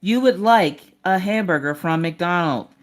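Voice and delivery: slow, measured assistant reading back an order; a hint of a robotic helper; lightly voiced assistant. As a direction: confirm it slowly like a voice assistant. Acting out Alexa reading back order.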